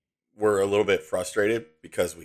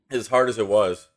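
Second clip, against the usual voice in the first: strained, caught in the throat; choking on a chocolate chip; 3 dB louder than usual. Real, not acted. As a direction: talk while choking on food. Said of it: "I'm sorry, I'm choking on a chocolate chip".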